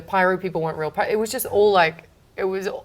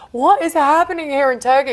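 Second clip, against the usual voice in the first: retold bewilderment; 7 semitones higher, 7 dB louder than usual. Retold bewilderment at threatened arrest.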